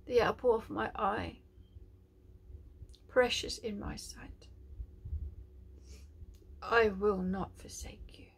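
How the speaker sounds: breathy whisper of God's love; tender prophetic whisper. Acted. Preacher whispers God's promise to a beloved child.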